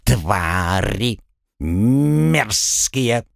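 shrill squawked bird insults; squawking parrot. Acted. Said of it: "взялся с энтузиазмом осыпать конкурентов бранью".

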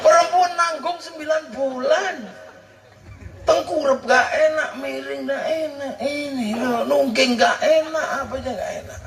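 high, laughing list of complaints. Acted. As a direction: pile up each gak enak with a laugh. Listing pregnancy discomforts laughing. (sambil tertawa geli)

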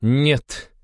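high, cool drawn-out refusal; cold, drawn out. A narrator's reading. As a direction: stretch the word coldly. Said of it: "холодно протянула Алла". (холодно протянуть)

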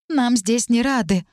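slow, tight, irritated line; barely mask the annoyance; poorly hidden irritation. Acted. Talit answering Luizia, poorly hiding irritation. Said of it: "плохо скрывая раздражение".

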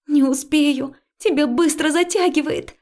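put-on high, loud girlish panic; a terrified girl refusing; frightened protest. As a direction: cry out in fear.

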